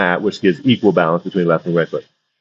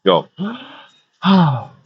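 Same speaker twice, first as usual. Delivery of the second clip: right breath; 7 semitones higher than usual. Shown as a demonstration. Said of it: "That's the best breath".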